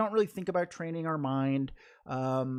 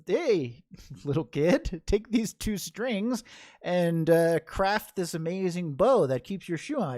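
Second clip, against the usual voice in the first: mock-eager instruction to a kid, a bit louder; lightly voiced instructor; 3 semitones higher, 4 dB louder than usual. Adult telling a little kid to tie a bow, lightly voiced instructor.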